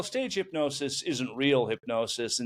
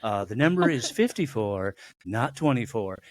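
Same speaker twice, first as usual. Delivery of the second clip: public service announcer. Acted. Body warning its fifty-four-year-old owner, lightly voiced announcer. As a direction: deliver it like a hint of an official notice. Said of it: "This is a public service announcement".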